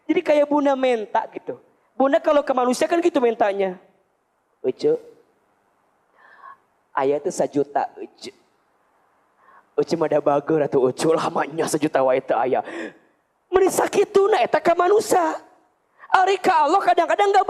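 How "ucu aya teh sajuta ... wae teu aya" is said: pleading to a neighbour. Retold or imitated. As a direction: coax a friend for money, sweetly. Voicing mother begging a person.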